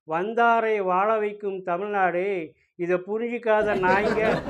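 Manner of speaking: slow, drawn-out hero punch dialogue; swaggering movie one liner. Pretend. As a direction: deliver it like a mass movie hero. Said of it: "punch டயலாக்கா?".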